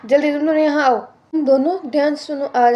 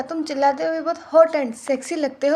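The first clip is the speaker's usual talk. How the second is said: soft flirting; 3 semitones lower, 4 dB quieter than usual. Acted. Husband flirts with wife.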